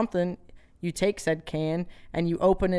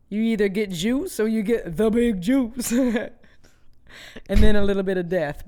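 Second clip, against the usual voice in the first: louder, higher with a Boston accent; 4 semitones higher, 5 dB louder than usual. Real, not acted. Joking about winning the big juice, Boston accent. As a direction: let a Boston accent slip out. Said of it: "I think your Boston accent just came out again".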